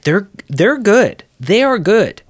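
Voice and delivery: emphatic insistence. Real, not acted. Host urging co-host to watch the films, insistent.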